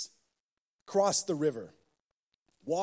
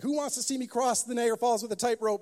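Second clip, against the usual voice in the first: showman call; 7 semitones higher, 3 dB louder, faster than usual. Retold or imitated. Showman calls out to crowd.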